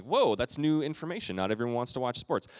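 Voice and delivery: hammed-up surprise at the wife's remark; wide-eyed surprise. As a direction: act stunned by new information. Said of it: "eyes open".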